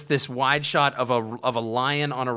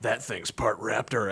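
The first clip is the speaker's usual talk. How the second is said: slow, softer mock-grave line; serious Chris Pratt; 5 semitones lower, 5 dB quieter, slower than usual. Mocking Chris Pratt's big reveal in the trailer, slow and grave. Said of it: "Chris Pratt looks up all serious and goes".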